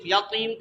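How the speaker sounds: "یتیم" with the t made heavy; wrong pronunciation. Shown as a demonstration. Teacher warns it will be wrong, "یتیم" with heavy t. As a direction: show faulty thick t in "یتیم". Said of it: "کریں تو وہ غلط ہو جائے گا".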